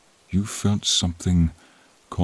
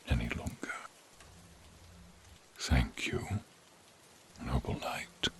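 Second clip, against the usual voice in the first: very soft, lower, breath only; last peaceful whisper; dying whisper; 5 semitones lower, 13 dB quieter than usual. Acted. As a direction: let the voice fade into rest. Final farewell while dying.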